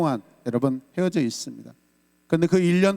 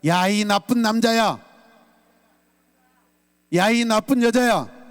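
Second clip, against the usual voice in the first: raised, slow call-out; model outcry; 5 semitones higher, slower than usual. Shown as a demonstration. Pastor gives congregation the outcry to repeat, slow and raised. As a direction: lead the shout slowly, raised. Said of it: "따라서 하세요".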